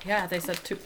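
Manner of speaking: talking while chewing; chewing through the words; mouth full. Real, not acted. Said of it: "Can you hear me chewing?".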